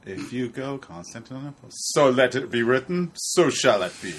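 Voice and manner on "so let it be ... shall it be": booming pharaoh. Acted. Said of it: "in Pharaoh voice".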